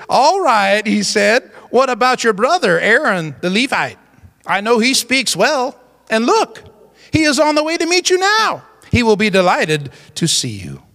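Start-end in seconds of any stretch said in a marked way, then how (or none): 0.1-0.8 drawn-out, mildly angry reply; acted touch of anger. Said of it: "You, you sense a little anger in that?". 1.7-10.8 mildly angry Lord, insistent; acted touch of anger. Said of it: "You, you sense a little anger in that?".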